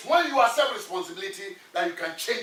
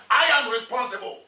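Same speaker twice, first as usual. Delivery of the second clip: chest-thumping affirmation, a little louder; firm declaration; 4 dB louder than usual. Shown as a demonstration. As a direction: proclaim "I am responsible" as a vow. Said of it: "hit your chest and say".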